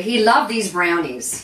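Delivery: loud, drawn-out declaration; emphatic fondness. Real, not acted. Host telling viewers about her dad's favourite, emphatically. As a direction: say it big and slow. Fond memory of dad, said emphatically.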